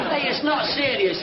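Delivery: laughing as he asks. Real, not acted. Brother asking his sister about her date, laughing. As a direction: push the words out through a laugh.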